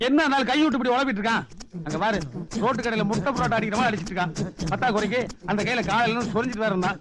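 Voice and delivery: loud, repulsed complaint; disgusted outburst. Acted. Man disgusted by the guest's eating, loud.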